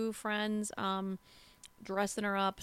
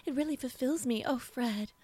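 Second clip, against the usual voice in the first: quick, higher swooning dub voice; overdub actress voice; 4 semitones higher than usual. Shown as a demonstration. Co-host eggs her on, fast swooning overdub voice. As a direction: rush the gushing like a dubbed lover. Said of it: "You would be so good".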